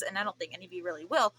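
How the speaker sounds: fighting back crying; small crying break; choked up. Real, not acted. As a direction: voice cracking with tears. Voice breaks about friends.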